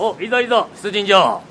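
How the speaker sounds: lightly voiced warlord calling out; rally the troops, lively; warlord rallying cry. (出陣を告げる武将)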